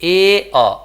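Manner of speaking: ए held long, then a short अ; separated vowel sounds. Shown as a demonstration. Teacher checks the sounds with class, separated vowels. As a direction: slowly separate ए from अ. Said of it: "आया ना".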